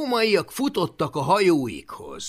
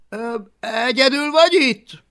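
high, louder cautious question; boy checking for guards; a hint of a boy; 10 semitones higher, 10 dB louder than usual. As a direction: ask it carefully. Boy asking dragon.

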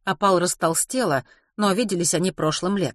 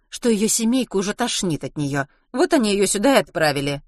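plain reading voice

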